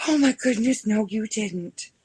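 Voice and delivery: horrified at what she hears; retold shock.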